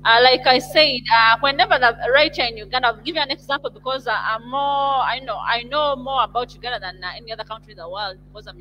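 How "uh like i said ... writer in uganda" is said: louder. Real, not acted. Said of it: "Speak slowly".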